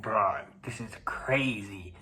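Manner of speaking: hushed disbelieving whisper. Retold or imitated. To himself alone at night, an unvoiced whisper. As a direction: breathe it out under your breath. Retold private reaction in dream.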